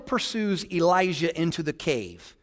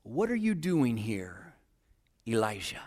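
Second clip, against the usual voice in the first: whisper of God; 9 semitones lower, 10 dB quieter than usual. Acted. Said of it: "his voice came in a whisper".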